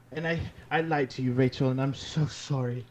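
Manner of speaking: fast, hammed-up fake sobbing apology; fake crying. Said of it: "I'm faking crying".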